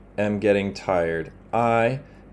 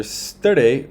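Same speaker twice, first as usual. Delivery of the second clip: sturdy said slowly with its own accent; a slow teaching demo of the accent on sturdy; word accent shown; 3 semitones higher, 3 dB louder than usual. Shown as a demonstration. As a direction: stretch out sturdy to show where its accent falls. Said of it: "look at the accent here".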